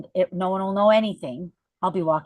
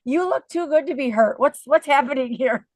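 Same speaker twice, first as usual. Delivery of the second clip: high, loud teasing disbelief; amazed friend; 6 semitones higher, 6 dB louder than usual. Retold or imitated. Friend Mary marveling she looks too good to be hurt, high and loud. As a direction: voice the friend in mock shock. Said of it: "She goes".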